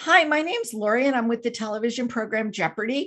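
put-on friendly, warm tone. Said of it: "she sounds real friendly".

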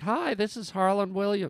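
overdone voice pushed way too high. Showing how the voice sounds when it gets too high: too high voice. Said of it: "my voice gets a bit too high".

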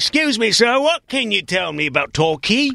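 bad put-on Cockney accent, very high-pitched. Asking an english person about a town in a bad cockney accent. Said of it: "bad Cockney".

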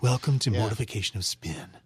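airy, breathy cool-guy commercial announcer delivery. Recreating a podcast intro line, breathy commercial-announcer voice. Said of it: "It was like kind of breathy, like this, like all those millennial commercials".

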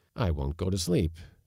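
ordinary delivery

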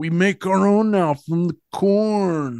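high, very slow delivery, "corn" stretched out. Quoting a film character defending a killing: Malachi impression. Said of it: "I'm enjoying your impersonations tonight".

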